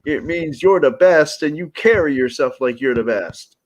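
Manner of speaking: a hint of Becky Lynch's Irish accent; Becky Lynch Irish brogue. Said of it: "I have to say it in the Becky Lynch Irish brogue".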